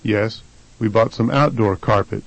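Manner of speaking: "outdoor" stressed on OUT; first-syllable stress. Shown as a demonstration. Answering the carpet question, stress on OUT in "outdoor". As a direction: shift the weight forward to OUT in "outdoor". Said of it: "the first syllable is stressed".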